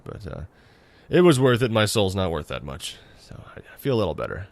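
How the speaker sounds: hoarse, strained lost voice; talking through a lost voice, straining. Real, not acted. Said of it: "It's just that I've lost my voice".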